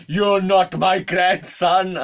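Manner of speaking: high, loud, drawn-out mock accusation; flipped-out old man. Old man turning on supposed grandson, flipped out. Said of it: "then he suddenly flipped".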